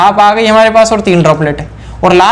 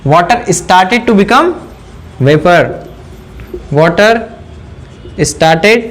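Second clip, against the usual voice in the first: drawn-out words with pauses between; word by word, leaving gaps to write; slow dictation; much slower than usual. Real, not acted. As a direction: dictate slowly for note-takers. Dictating notes for students to write.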